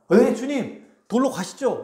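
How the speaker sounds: keen yes to a master, acted; acted eager obedience. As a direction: answer at once, ready to go. Acting a believer's eager answer.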